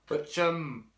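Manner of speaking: something stuck in mouth; mouth full. Real, not acted. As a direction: talk round something in the mouth. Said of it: "I got something stuck in my mouth".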